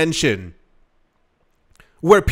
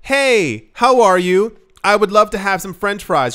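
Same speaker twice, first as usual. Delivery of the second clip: polite customer; 2 semitones higher, 4 dB louder than usual. Pretend. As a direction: play a customer asking nicely. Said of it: "Or you're like".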